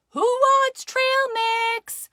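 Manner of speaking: high, loud sing-out offer; shouting out. Acted. Mama offers the family a snack, shouting out. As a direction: call everyone in for a treat. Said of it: "Mama shouted out".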